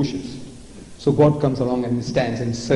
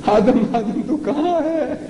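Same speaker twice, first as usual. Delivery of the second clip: calling out higher for the hidden Adam; God calling out; 5 semitones higher than usual. Retold or imitated. God searching the garden for Adam, calling out higher. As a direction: call out like searching for someone. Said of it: "So he said".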